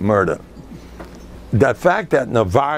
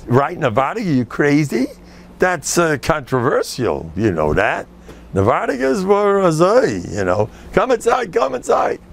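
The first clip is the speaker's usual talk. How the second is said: a hint of a sceptical rabbi; 4 semitones higher than usual. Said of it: "I told stories".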